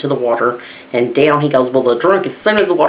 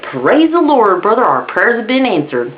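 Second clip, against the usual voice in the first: high, mock-rejoicing praise; jubilant boy bird; 5 semitones higher than usual. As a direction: rejoice as a lightly voiced praying bird. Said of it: "that one boy bird looked over".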